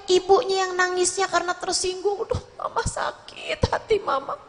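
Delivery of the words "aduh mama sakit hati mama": mock whiny mother. Mocking a touchy mother.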